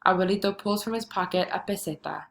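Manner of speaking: measured poem reading with pauses between lines; poem recital. Acted. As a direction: read the bilingual poem aloud, line by line. Reads a poem aloud.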